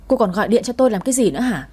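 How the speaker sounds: fast, sharp snap at his ex; snapping. Acted. Ex-wife phones again, he snaps back fast. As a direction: bark it out quickly. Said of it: "quát lên".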